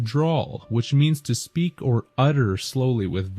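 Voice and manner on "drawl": "drawl" said as one word; pronounced as drawl. Shown as a demonstration. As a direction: say "drawl" as the sound of drawal. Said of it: "is phonetically pronounced".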